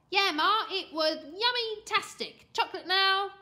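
put-on high, loud, gleeful kid; brash, over-keen child; cocky boy. A narrator's reading. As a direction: bluff with exaggerated relish. Boy bluffs and demands reward.

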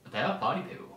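hushed, whispered aside. Pretend. Co-host insisting that they are party people, whispered. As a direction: drop to a whisper for the correction.

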